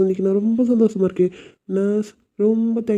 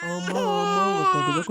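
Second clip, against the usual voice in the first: tearful relief; 13 semitones higher, 5 dB quieter than usual. Acted. Father hears baby born.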